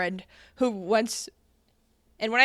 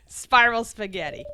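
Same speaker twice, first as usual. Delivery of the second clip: hammed-up declaration; 5 dB louder than usual. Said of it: "You have to wave your hand around while you say it".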